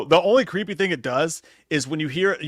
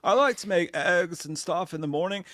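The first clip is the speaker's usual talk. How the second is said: mock stoner girl voice; 2 semitones higher, slower than usual. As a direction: play the laid-back girl who smokes a bowl. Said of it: "I picked this girl's voice".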